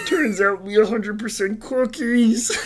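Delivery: Kermit doing Cookie Monster lines, slow; throaty frog voice with cookie talk. Pretend. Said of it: "Kermit, that's not your quirk".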